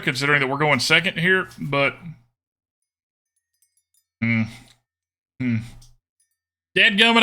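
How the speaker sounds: put-on folksy country Southern accent. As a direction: put on a playful Southern twang.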